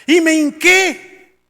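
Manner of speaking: loud, high, drawn-out confession; imitating tearful testimony. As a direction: act out a tearful father's testimony, slowly. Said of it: "estaba llorando cuando decía eso".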